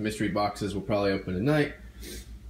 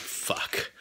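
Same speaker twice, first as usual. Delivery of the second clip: breathy unvoiced swear under the breath; whispered curse; 8 dB quieter than usual. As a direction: mutter it under your breath. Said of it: "so I'm like".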